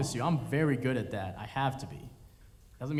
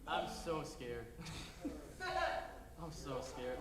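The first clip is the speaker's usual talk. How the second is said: mock scared; 13 dB quieter, much slower than usual. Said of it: "confessing fear to doc".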